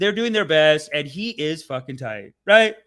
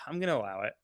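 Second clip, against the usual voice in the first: judge; 5 semitones lower, 8 dB quieter, much faster than usual. Acted. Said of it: "And the judge is like".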